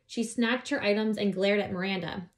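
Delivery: put-on lively read-aloud voice for children; story narration. A narrator's reading. Reading a children's book aloud.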